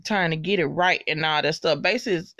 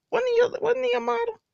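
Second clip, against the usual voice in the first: excited squeal. Real, not acted. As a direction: ask it like you can't believe it. Repeats the excited question.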